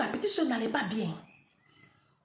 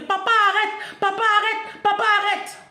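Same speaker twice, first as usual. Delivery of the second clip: put-on high loud pleading children; children crying out; 9 semitones higher, 7 dB louder than usual. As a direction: cry out like scared little girls. Fillettes pleurent devant le père. (cris suppliants des petites filles)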